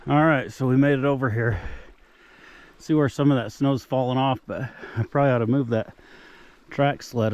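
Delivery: out of breath from the climb; panting between phrases after trudging uphill; heavy breathing. Real, not acted. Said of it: "Sorry I'm breathing hard".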